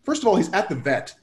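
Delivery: settled, measured inner voice; calm reasoning. Retold or imitated. Driver reasons with himself to de-escalate, calm. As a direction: talk yourself down calmly. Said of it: "calm side kicked in".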